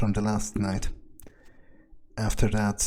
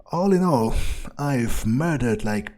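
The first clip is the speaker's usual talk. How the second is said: gleeful boast, drawn out and louder; gleeful brag; 3 semitones higher, 6 dB louder than usual. Real, not acted. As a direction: savour the body count, building louder. Gleeful recap of the night's kills.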